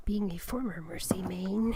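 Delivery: whispered card reading; whispering. Acted. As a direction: whisper it like a secret.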